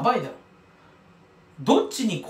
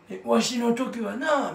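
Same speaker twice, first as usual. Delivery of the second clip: put-on old man voice; much slower than usual. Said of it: "みたいな感じで言ってる".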